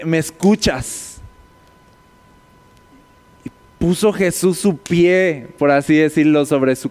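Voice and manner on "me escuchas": scolding. Retold or imitated.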